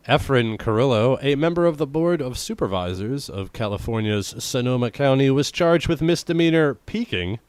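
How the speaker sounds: lightly formal news-reading voice. Acted. Podcaster reads odd news to co-host, news read.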